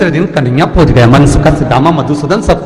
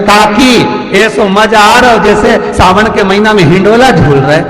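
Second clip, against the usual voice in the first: put-on teasing boy; 4 semitones higher, 4 dB louder than usual. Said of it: "Kanhaiya बोले".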